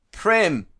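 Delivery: high, loud, desperate cry of a name; strangled cry. Acted. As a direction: cry out as if the throat chokes. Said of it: "The strangled cry comes out of my throat".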